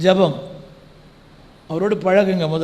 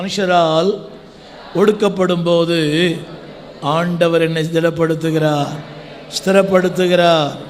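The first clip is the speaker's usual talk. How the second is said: emphatic preaching, building in volume; preacher's declaration; 3 dB louder than usual. Real, not acted. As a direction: declare it phrase by phrase for the crowd. Preacher declares verse for congregation.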